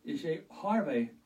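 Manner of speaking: Jimmy Stewart in Harvey. Retold or imitated. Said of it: "like in Harvey".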